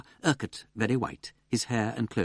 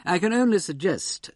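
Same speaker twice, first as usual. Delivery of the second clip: ghastly face; 10 semitones higher, 6 dB louder than usual. A narrator's reading. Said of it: "with a ghastly face".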